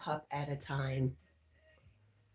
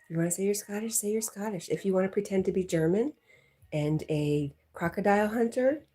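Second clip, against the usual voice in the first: higher, playful mock lecture to a viewer; mock teasing; 5 semitones higher than usual. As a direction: tease him with a playfully preachy rant, pitched up. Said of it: "I'm kidding".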